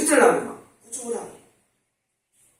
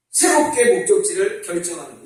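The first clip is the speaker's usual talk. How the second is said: ordinary talk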